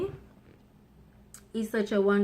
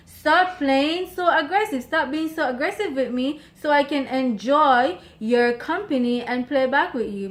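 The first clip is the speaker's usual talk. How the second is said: retold plea; 4 semitones higher than usual. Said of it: "So I keep telling him".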